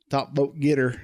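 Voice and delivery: quick hint of a Southern accent. Shown as a demonstration. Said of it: "that was my southern accent for you".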